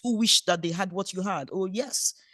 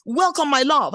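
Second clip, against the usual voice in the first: put-on bright, louder girlish greeting; enthusiastic welcome; 3 semitones higher, 6 dB louder than usual. Wife greeting husband coming home, eager and loud. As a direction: greet him like a thrilled girl. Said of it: "So I had to become a girl".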